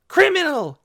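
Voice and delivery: high, loud accusing yell. A narrator's reading. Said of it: "yelled Yorick".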